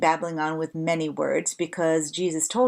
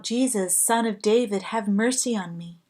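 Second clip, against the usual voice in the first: calling out; 4 semitones higher than usual. Retold or imitated. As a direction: call out to be heard over a crowd. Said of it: "He called out".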